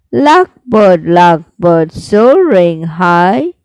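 slow, sing-song recital with rising line ends; poem recitation. Shown as a demonstration. Teacher reciting the lark poem for students, slow sing-song. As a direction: recite it like a class poem, each line lingering.

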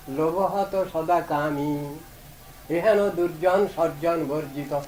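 slow, measured reading of a hymn verse; drawn-out hymn recitation; slow devotional recitation. Acted. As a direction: recite each line slowly and humbly, like a confession. Recites Bhaktivinoda's kirtan verse.

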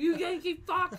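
loud Boston yell; angry shout. Acted. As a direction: shout it like an offended local. Joins the angry Boston rant.

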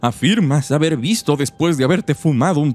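lightly voiced little old woman. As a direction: read it as a frail old lady. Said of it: "mi voz de viejita". (voz de viejita)

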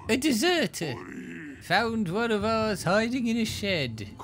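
high, urgent soldier report. Acted. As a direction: call out to the king, alarmed. Soldier reports deserter to king.

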